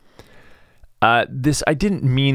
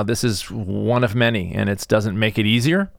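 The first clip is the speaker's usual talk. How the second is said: usual speaking voice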